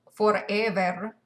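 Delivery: "Forever" slow in Spanglitalian English, last syllable drawn out; Spanglitalian accent. Shown as a demonstration. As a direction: stretch "Forever" with a Spanish-Italian accent. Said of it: "where he was like".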